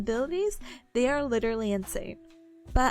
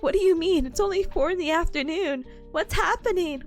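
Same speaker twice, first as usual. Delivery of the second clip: surprised; 6 semitones higher, 3 dB louder than usual. Retold or imitated. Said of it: "So I'm like".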